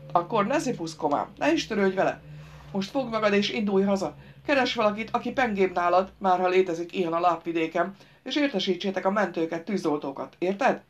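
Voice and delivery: lightly voiced grouch, straining for patience; irritable driver, instructing. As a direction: spell out orders to a dimwit.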